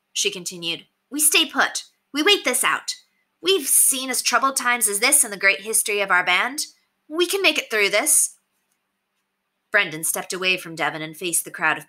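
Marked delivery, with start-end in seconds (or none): 1.1-8.4 high-pitched woman holding her ground; insistent bandit woman. A narrator's reading. Bandit woman urges the band to wait, insistent. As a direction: insist in a raised female pitch.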